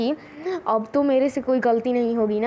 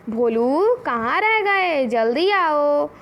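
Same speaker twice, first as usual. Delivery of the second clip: slow drawn-out call across a distance; mother calling her son home from inside; calling from the house; 2 semitones higher, much slower than usual. Retold or imitated. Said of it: "बोलती है". (घर से पुकारती माँ, धीमी खिंची आवाज़)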